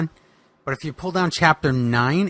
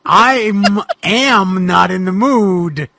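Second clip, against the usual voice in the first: grumpy refusal; 4 semitones higher, 6 dB louder, much slower than usual. Acted. Boogeyman refuses the ghost.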